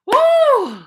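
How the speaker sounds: high-pitched "woo"; piercingly high exclaimed whoop; loud whoop. Real, not acted. Whoops after being cut off.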